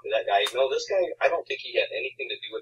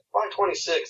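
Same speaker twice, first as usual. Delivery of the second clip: put-on higher drunk English accent; 8 semitones higher than usual. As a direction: repeat it with a British lilt. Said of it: "he had, like, an English accent".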